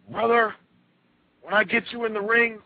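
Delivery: high, punchy imitated promo voice; mock wrestling promo. Bewildered wrestler threatens opponent on the mic, mock promo voice. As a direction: start a big threat on the mic.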